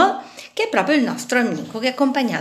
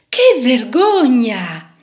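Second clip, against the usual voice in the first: scornful; 2 semitones higher, 6 dB louder, slower than usual. Acted. Little fish mocking the screw.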